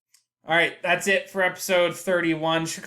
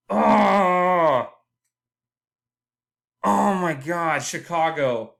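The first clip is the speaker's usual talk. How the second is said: anguished shout; 4 dB louder, much slower than usual. Real, not acted. Groans at the Chicago result.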